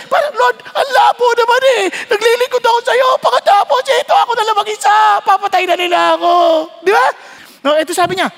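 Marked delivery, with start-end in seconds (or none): 0.1-6.3 whiny complaint. Acted. Elijah complains to God.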